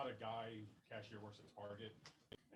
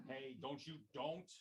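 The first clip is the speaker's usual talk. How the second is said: alarmed mom; 3 semitones higher, 4 dB louder, slower than usual. Acted. Mom stopping child.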